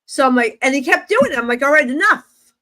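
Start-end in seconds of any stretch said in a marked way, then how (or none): 1.6-2.5 louder, higher exasperated retort; acted-out "that's enough" exasperation; fed-up. Fed up with repeated sight.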